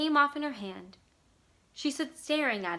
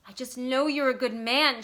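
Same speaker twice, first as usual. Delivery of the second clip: desperate; 3 semitones higher, 6 dB louder than usual. A narrator's reading. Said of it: "she said desperately".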